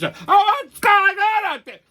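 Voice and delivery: high, slow mock voice of a gawking seatmate; mocking nosy passenger. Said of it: "I always get some fucking savage".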